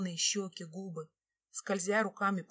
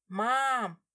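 raised, higher call to mum; a louder, lifted hail; 4 semitones higher, 6 dB louder than usual. A narrator's reading. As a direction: call out for mum across the house. Calls into house to mother.

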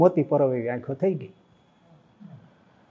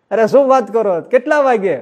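higher, louder startled question; astonished; 6 semitones higher, 6 dB louder than usual. Retold or imitated. Mansukhbhai stunned by the devotee's answer, astonished. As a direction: react in disbelief.

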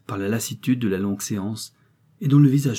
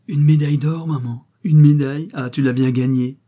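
put-on excited child; 5 semitones higher, 7 dB louder than usual. A narrator's reading. Enfant exulte pour sa mère.

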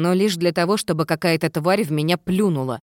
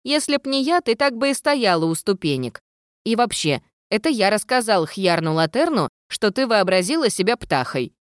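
lightly raised ghost voice; a cheeky ghost, a bit higher; 6 semitones higher than usual. A narrator's reading. Ghost character voice.

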